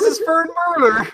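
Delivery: put-on Irish accent with a Fern vowel. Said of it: "This is my Irish accent impression".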